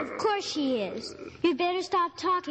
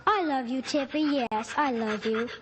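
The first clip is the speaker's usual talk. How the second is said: soothing the dog; 4 semitones lower than usual. Acted. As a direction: hush the pup gently so she stops whining. Girl soothing her sad dog.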